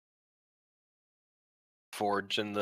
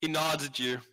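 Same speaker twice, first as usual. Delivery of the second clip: ordinary delivery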